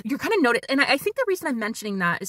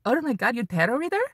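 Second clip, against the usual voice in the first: imitated Ukrainian accent, raised pitch; 4 semitones higher than usual. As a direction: do an excited client with a Ukrainian accent. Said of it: "forgive the accent".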